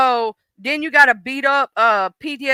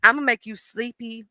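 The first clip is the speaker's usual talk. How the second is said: a touch softer, calm and lulling; soothing chill voice; 4 dB quieter than usual. Acted. The chill mood lulling its owner, softly. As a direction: ease them down toward sleep. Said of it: "she's like".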